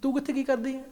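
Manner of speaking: soft whisper-like coaxing. Retold or imitated. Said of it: "धीरे से बोला".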